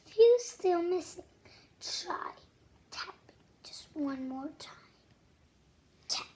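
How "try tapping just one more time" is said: much softer hushed prompt; soft whisper. Acted. Soft whisper, prompting kids to tap once more. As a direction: hush them into one more try.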